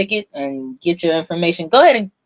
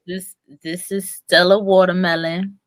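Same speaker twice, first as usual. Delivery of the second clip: sexy voice. Shown as a demonstration. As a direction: purr the name seductively. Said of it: "Say it in your Stella Watermelon".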